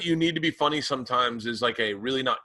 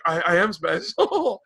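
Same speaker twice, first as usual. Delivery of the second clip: mocking voice; 5 semitones higher, slower than usual.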